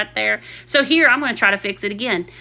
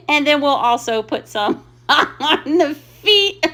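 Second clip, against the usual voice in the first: giggling mid-sentence; breaking into a laugh on the feet; 5 semitones higher than usual. Real, not acted. Vlogger adding rickrack to the feet, laughing. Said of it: "I'm still dying laughing".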